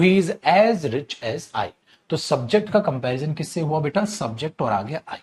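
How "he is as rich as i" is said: slow dictation. Shown as a demonstration. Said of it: "इस तरीके की बातें आप ऐसे बोलते हो".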